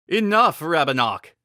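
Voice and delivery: king's furious yell. A narrator's reading. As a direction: stop him cold. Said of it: "the king yelled".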